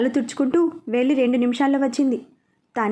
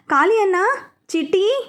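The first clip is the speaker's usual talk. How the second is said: higher, louder repeated call; calling even louder; 6 semitones higher than usual. A narrator's reading. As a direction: shout for them more urgently. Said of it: "అంటూ ఇంకా బిగ్గరగా పిలిచింది". (ఇంకా బిగ్గరగా పిలుస్తూ)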